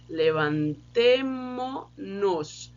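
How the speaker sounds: "Levantemo-nos" very slow, stress on "te"; slow demo pronunciation. Shown as a demonstration. Teacher modelling "Levantemo-nos" for the class. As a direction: spell "Levantemo-nos" out slowly. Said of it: "tem a questão do som".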